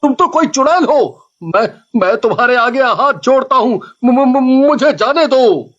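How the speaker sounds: stuttering, pleading in panic; terrified begging. Acted. Driver begging the witch to let him go, stuttering. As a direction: beg for your life.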